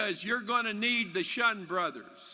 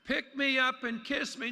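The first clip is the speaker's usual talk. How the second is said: insistent frog; 5 semitones higher than usual. Pretend. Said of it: "the frog interrupts the cast and says".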